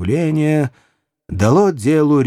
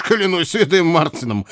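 high-pitched, indignant swearing; enraged oath; 5 semitones higher than usual. A narrator's reading. Enraged archer swearing to the provost, indignant exclamation. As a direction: swear it out in anger, pitch raised. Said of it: "воскликнул взбешённый Лесли".

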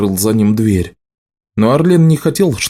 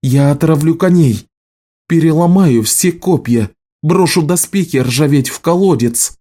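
furious threats; 7 semitones higher than usual. A narrator's reading. Угрозы в ссоре.

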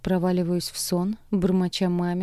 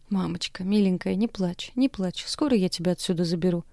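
comforting. Acted. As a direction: hush mother gently. Comforting crying mother.

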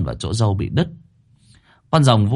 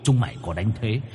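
mocking ghost; 4 semitones lower, 7 dB quieter than usual. Tied ghost mocks its captors.

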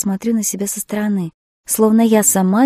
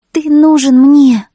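put-on slow, loud, higher childlike plea; inner child; 7 semitones higher, 13 dB louder, slower than usual. A narrator's reading. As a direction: let the little girl inside cry it out. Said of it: "возразил мой внутренний ребёнок". (медленно и громко, как обиженный ребёнок)

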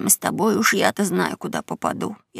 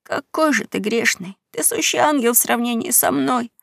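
sobbing; 5 semitones higher than usual. Acted. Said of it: "Геккельбери тоже принялся всхлипывать".

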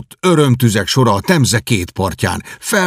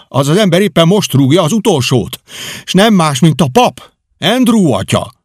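threatening; 5 semitones higher than usual. Acted. The man at the door threatens Kenty, raised voice. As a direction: gloat over his trouble.

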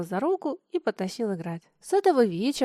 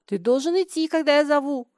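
higher and louder, a flash of temper; flare-up; 4 semitones higher, 5 dB louder than usual. Acted. Лёня stamps his foot and orders Миша, flaring up. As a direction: snap it out like a spoiled little master. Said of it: "вспылил Лёня и топнул ногой".

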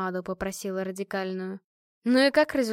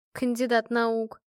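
usual speaking voice

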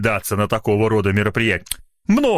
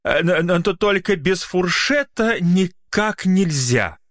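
secretary; 7 semitones higher, slower than usual. Acted. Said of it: "говорит секретарь".

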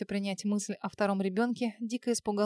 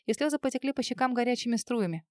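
ordinary delivery

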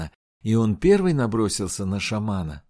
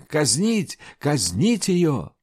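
angry shout; 5 semitones higher, much slower than usual. Acted. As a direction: demand execution in fury. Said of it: "гневно закричали".

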